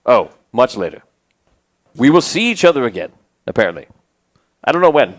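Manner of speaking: lightly voiced, hesitant traveler; Argon the paladin. Paladin introduces himself to strangers, lightly acted hesitant voice.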